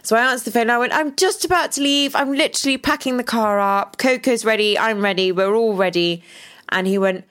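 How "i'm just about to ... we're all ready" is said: breezy. Retold or imitated. Retelling breezy phone answer.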